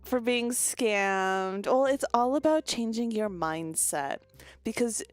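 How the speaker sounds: a hint of a scammy life coach thanking a client. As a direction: gush like a mentor selling a program. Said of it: "The way of speaking".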